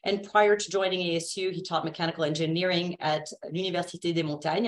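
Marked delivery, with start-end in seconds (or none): 3.5-4.7 French accent. Shown as a demonstration. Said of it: "I'm gonna say it with my French accent".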